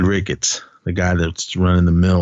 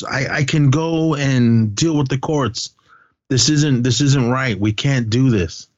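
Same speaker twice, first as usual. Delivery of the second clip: higher, imitated earnest plea; retold pleading; 5 semitones higher than usual. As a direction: act out pleading to be reasonable.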